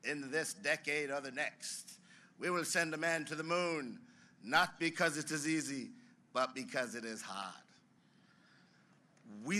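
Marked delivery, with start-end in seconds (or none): 0.1-7.7 a hint of Kennedy's Boston accent on the famous line; lightly put-on Boston accent, orator's cadence; JFK Boston accent. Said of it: "in that amazing Bostonian accent".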